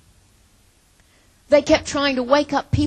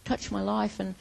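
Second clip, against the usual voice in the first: mock demanding prayer; 4 dB louder than usual. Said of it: "and say".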